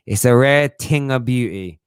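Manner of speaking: put-on slow, savouring quote without the accent; barely voiced old trainer line; Mickey from Rocky. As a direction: lean on rare, slowly. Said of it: "Mickey from Rocky".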